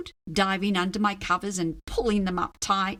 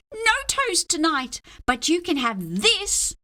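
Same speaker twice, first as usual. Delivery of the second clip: offered; 7 semitones higher than usual. Acted. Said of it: "I offered".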